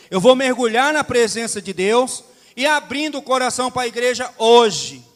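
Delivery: emphatic sermon delivery, key words punched loud; preaching. Real, not acted. Pastor urging the church to seek God's presence, emphatic preaching.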